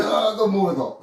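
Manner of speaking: high-pitched mock panicked cry; imitating panic. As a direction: mimic the patient seizing up in fright. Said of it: "You were".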